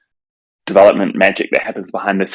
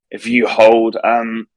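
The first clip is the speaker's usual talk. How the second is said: hoarse voice; 2 semitones higher, slower than usual. Real, not acted. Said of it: "there's my voice starting to go".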